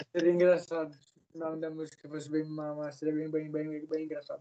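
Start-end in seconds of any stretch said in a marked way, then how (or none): none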